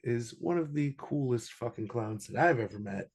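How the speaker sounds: usual speaking voice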